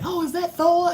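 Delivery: high, sing-song imitation of the neighbor; neighbor's sweet question. Neighbor at the door asks about Thor, high and sing-song. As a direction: mimic the neighbor cooing over the dog. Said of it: "she came to the door and said".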